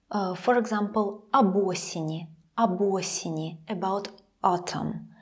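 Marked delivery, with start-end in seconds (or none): 1.3-3.6 "об осени" with об as "ab". Shown as a demonstration. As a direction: open a in об of "об осени". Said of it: "sounds like ab".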